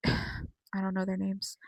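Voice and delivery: slow sighing whisper; a slow sigh then a whisper; whispered aside. Real, not acted. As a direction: drop to a whisper, half to yourself. Whispered aside about forgotten names.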